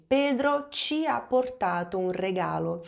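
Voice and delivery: Pedro ci ha portato un regalo spoken slowly in Italian; teacher reading an Italian example; Italian sentence. Shown as a demonstration. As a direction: model it carefully for learners. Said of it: "Pedro nos trouxe".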